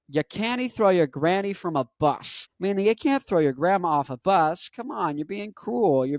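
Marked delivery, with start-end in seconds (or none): 0.1-2.5 Scottish, spelled out. Retold or imitated. Relative repeating for a puzzled visitor, clearer Scottish accent. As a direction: repeat it more distinctly, lightly Scottish. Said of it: "I said, "What?".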